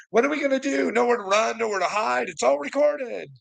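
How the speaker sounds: high, taunting wail; mock panic. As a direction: feign alarm to needle someone.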